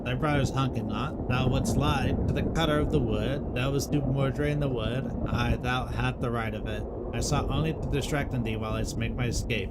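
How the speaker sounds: lightly voiced solemn forest folk, old-fashioned speech; a hint of a grave medieval woodcutter questioning trees; archaic woodland dialogue. Accusation and confession among trees.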